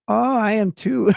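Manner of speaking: lightly put-on Colombian accent. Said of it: "her accent. She sounded like".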